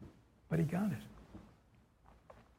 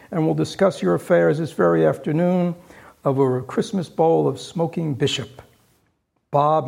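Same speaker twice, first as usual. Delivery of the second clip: louder, jovial generosity; earnest, hearty Scrooge; 5 dB louder than usual. Acted. Scrooge promising Bob a raise, hearty and louder. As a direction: beam at your clerk. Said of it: "with an earnestness".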